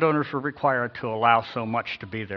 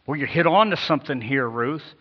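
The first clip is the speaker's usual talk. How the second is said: louder, brightly approving counterexample; hammed-up delight at a great idea; mock enthusiasm; 3 semitones higher, 6 dB louder than usual. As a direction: play the wrong, over-keen reading. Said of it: "Not like".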